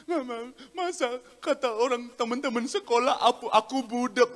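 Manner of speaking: lightly voiced complaining child, halting; small child. Child tells mother about schoolmates' teasing, small child voice. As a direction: imitate a child telling on schoolmates. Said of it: "anak kecil dia pulang".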